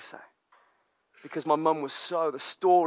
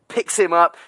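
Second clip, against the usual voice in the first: ordinary delivery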